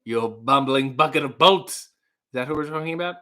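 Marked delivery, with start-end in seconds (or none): 0.0-1.9 loud theatrical insult, lightly imitated; hammed-up TV villain scolding; Jonathan Harris. Quoting Doctor Smith insulting the robot, lightly imitated bluster. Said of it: "played by the wonderful Jonathan Harris".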